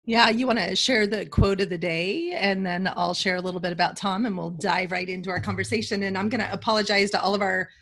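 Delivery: a frog in the throat; hoarse from a cold. Real, not acted. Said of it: "I've got a little bit of frog in my throat".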